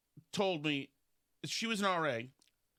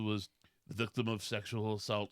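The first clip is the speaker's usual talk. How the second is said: much lower, hushed, grave put-on voice; mock solemn sister; 8 semitones lower than usual. The sister making her grave claim, low and solemn. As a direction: deliver it as a dramatic confession. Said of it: "And she said, she said".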